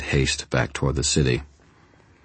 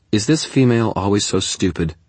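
contemptuous; 6 semitones higher, 4 dB louder than usual. A narrator's reading. Tara sneers at Susan.

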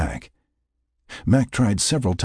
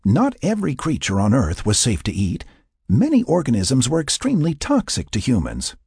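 earnest, urging warning; pressing a cautionary point; 6 semitones higher than usual. A narrator's reading. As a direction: urge him to listen to the danger. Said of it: "she urged".

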